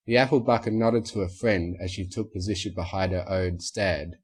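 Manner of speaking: plain reading voice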